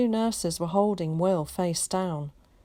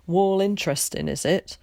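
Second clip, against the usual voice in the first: sarcastic; 2 semitones higher, 5 dB louder than usual. Acted. Tom's irritated jab.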